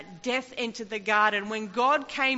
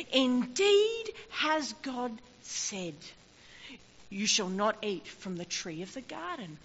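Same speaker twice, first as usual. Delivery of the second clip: sly serpent. Acted. Serpent's words quoted in sermon.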